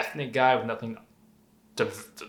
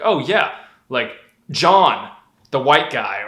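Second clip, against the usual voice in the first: louder mock labeling voice; mock description; 6 dB louder, slower than usual. Mocking how people label him, louder. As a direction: ham up the pointless label. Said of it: "me describing someone like".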